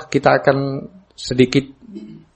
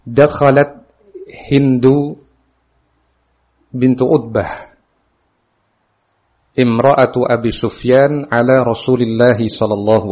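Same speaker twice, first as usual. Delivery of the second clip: raised, projected Arabic reading; hadith recitation; 2 semitones higher, 4 dB louder than usual. A narrator's reading. Teacher reads Hind's hadith to students, formal recitation. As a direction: recite the text firmly to the class.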